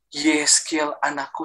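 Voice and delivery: slow, tender imitated call; gentle calling voice. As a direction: draw out the name gently, without pushing. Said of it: "Suara itu panggil saya dengan lembutnya".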